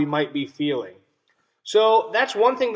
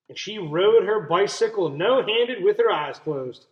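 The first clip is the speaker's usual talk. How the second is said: put-on reading to children. A narrator's reading. Teacher reading a story to her class, clear and expressive. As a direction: read it to the class with wonder. Teacher reads picture book aloud.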